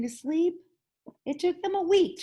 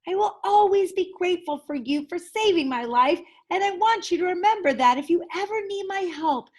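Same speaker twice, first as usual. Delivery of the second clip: lightly voiced mouse; 6 semitones higher, 4 dB louder than usual. Amos at farewell.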